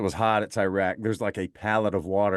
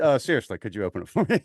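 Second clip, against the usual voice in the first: laughing request; 3 semitones higher, faster than usual. Retold or imitated. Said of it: "burst out in the most raucous laughter".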